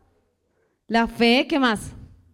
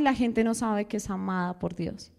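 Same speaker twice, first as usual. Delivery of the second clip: hushed lament over people unaware of God's love; soft, low, earnest take; 6 semitones lower, 7 dB quieter than usual. Acted. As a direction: lower and softer, inward and sincere. Repeated, first take.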